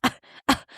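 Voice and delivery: two short mock scoffs; imitation of a disdainful scoff; imitated scoff. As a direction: scoff dismissively, twice, in imitation. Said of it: "Amanda scoffs".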